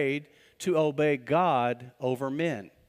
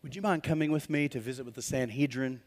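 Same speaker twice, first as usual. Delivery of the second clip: overly polite request. Retold or imitated. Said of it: "So they're like".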